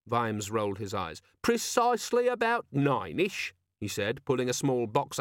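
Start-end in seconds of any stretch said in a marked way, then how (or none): 1.4-3.5 high, slow mimicry of a squeaky gadget; mocking the demon. A narrator's reading. Vimes mimicking the organizer demon's squeak. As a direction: parrot it back sarcastically.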